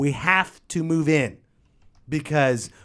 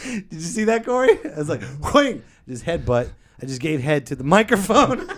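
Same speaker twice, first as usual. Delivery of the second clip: laughing; 3 semitones higher, 3 dB louder than usual. Real, not acted. Laughing after hitting microphone.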